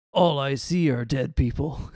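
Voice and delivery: slow, offhand movie-line delivery; Bruce Willis, casual. Retold or imitated. Co-host quoting a film line to friends, casual. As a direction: drop the line casually, unhurried. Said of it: "Bruce Willis casually says".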